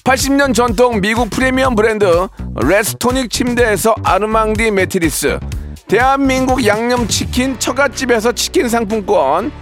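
brisk sponsor list read. Acted. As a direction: read the prizes like an ad.

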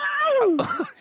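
loud high laugh; high burst of laughter. Real, not acted. Host laughs at impression. (높은 웃음 터뜨리기)

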